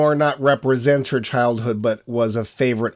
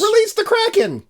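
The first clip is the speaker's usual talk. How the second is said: mock epic command. Co-host quotes the monster film, hammy command. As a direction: call it out like a movie god.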